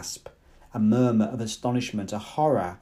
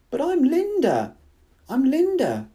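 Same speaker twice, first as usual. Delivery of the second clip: very high, louder desperate cry; 13 semitones higher, 4 dB louder than usual. Acted. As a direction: cry out to be recognised. Linda clinging desperately.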